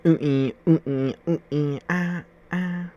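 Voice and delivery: playful high whooping; excited whoop. Acted. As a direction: whoop it like a cheer.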